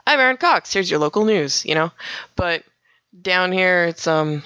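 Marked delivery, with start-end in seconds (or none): 0.1-1.7 newsreader intro, pitched up at the start; local newsreader demo. Shown as a demonstration. Radio host showing her Minnesota station sign-on, friendly news read. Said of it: "It'd be like".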